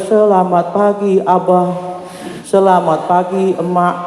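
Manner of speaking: slow, drawn-out greeting; mock-dutiful, measured hello; acted polite greeting. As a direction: stretch each greeting out slowly. Stiff greeting to parents, acted out.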